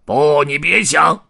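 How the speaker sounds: loud, high, drawn-out protest; indignant tramp's yell; clamouring refusal. A narrator's reading. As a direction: shout back in a quarrel. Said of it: "黑胡子嚷嚷起来".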